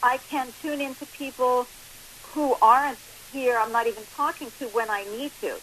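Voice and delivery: phone line sound; talking down a phone line; over the phone. Real, not acted. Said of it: "obviously we're on the phone right now".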